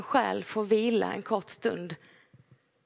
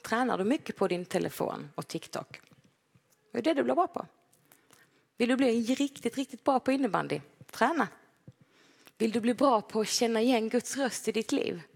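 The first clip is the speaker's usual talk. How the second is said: nagging parent; 3 semitones higher than usual. Retold or imitated. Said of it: "Jag brukar tjata till mina barn".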